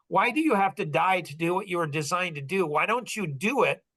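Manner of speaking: mildly exasperated questioning, pitch climbing toward the end; understated, frustrated pleading; retold frustration. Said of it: "Why are you angry and frustrated".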